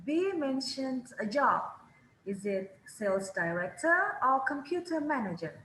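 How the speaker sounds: "computer manager" falling at the end; teacher repeating after the recording; choice question tune. Shown as a demonstration. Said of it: "Yang kedua selalu turun nadanya".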